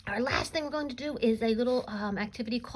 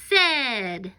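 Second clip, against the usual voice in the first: loud call at usual pitch; yell; 7 dB louder than usual. Shown as a demonstration. Teacher ending a round of yelled sight words, yell. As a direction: call the word out loudly. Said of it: "Give a big yell".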